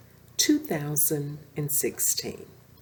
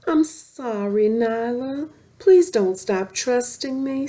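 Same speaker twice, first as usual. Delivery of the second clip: pleading; 6 semitones higher, 5 dB louder than usual. Acted. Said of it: "Simba pleaded".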